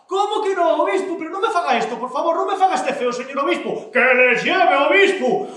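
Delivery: high, insistent acted protest; indignant pleading. Manolona won't take the bishop's refusal, indignant pleading.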